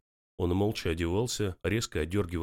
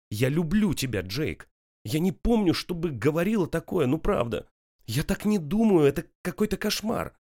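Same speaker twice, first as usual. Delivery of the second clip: desperate tearful plea; 8 semitones higher, 5 dB louder than usual. A narrator's reading.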